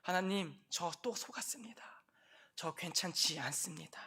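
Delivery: whispered humble prayer; whispering to God; whispered confession. Acted. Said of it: "그 자녀가 하나님 앞에 나와서".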